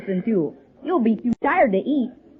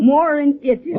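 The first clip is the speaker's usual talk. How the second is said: louder, laughing as he says it; 4 semitones higher, 3 dB louder than usual. Acted. Jerry explains M I K to Mister Bradley, laughing. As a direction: blurt the punchline through a laugh.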